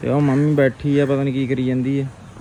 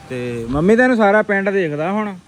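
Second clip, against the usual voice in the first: calling to mom; 3 semitones higher than usual. Real, not acted. Calling to mother, teasing.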